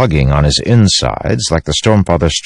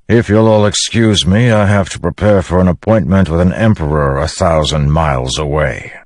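lightly voiced commander taking his leave; Dalinar; 3 semitones higher than usual. Dalinar excuses himself for an emperor's appointment, formal.

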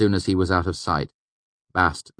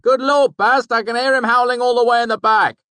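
loud, higher call across the house; calling from another room; 10 dB louder than usual. A narrator's reading. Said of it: "Kvothe called from the kitchen".

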